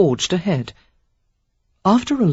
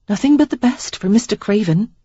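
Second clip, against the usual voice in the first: put-on dry young woman; 5 semitones higher than usual. A narrator's reading. Sarah voiced, dry.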